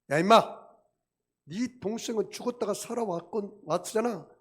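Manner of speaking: a father yelling at his grumbling son; scolding parent. Retold or imitated. Parent loudly scolding the elder son. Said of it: "막 이렇게 야단치는 부모가".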